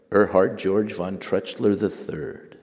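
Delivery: lightly voiced grand German baron; slow, weighty pronouncement of a title. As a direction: announce the name slowly and loudly, like a baron. Naming baron in his manner.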